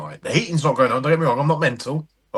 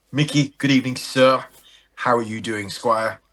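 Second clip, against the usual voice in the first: mock posh English. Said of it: "when did people stop speaking like that".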